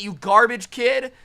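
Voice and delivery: loud, high, slow insult; screamed insult. Acted. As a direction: drag out the yell at the kid. Screamed insult, then just kidding.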